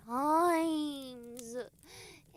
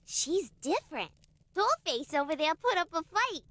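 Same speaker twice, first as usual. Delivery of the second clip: put-on old Chicago gangster girl accent, drawled. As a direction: tough Chicago moll accent from a classic musical. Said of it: "I'm not quite sure what that accent".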